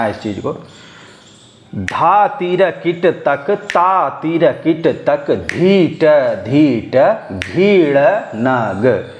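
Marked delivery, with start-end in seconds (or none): 1.7-9.1 very slow, drawn-out tabla syllables; slow bol recitation. Shown as a demonstration. Teacher slowly reads the bols for students to follow. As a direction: spell the rhythm out one syllable at a time. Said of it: "अब देखिए, मैं पढ़ूँगा".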